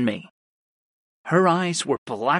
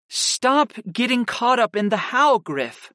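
impatient; 9 semitones higher than usual. A narrator's reading. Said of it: "Kristen said with an impatient sigh".

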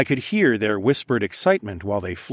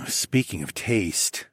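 growling; 3 dB quieter, slower than usual. Acted. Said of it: "I growled".

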